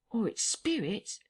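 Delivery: put-on a frightened old vagrant muttering to himself; rustic tramp, rattled.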